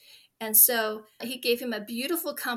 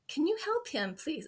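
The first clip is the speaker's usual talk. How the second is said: holding back tears as she asks for help; choked up; 5 semitones higher than usual. Real, not acted. Mom recalling asking a mentor for help, choked up. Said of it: "I'm gonna get emotional".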